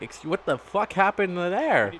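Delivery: slow, stunned disbelief; mock stunned what-happened. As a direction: drag it out, baffled. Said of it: "I'm gonna be like".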